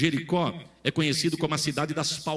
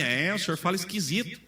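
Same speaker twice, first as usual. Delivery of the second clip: laughing; 3 semitones higher than usual. Retold or imitated. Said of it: "Eu falo estranho?".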